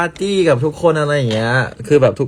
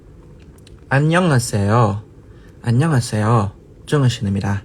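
slow, careful Korean greeting as his friend taught; Korean accent; slower than usual. Shown as a demonstration. Showing fans the Korean greeting his friend taught, slow careful accent. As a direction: say อันยองอาเซโอ slowly, each syllable drawn out like a Korean friend. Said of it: "สำเนียงนี้นะครับ เพื่อนเกาหลีเป็นคนสอน".

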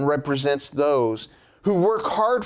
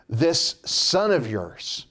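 slow, drawn-out and disdainful; contemptuous older brother disowning his brother; with disgust; slower than usual. Retold or imitated. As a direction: spit out "son of yours" slowly, holding him at arm's length. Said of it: "with disgust".

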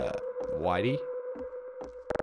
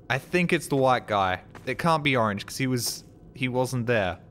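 excited; 5 semitones higher than usual. Real, not acted. Arguing excitedly over the traitor.

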